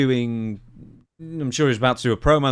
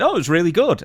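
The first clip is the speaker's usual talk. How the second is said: mocking praise; 6 semitones higher, 5 dB louder than usual. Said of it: "and they said".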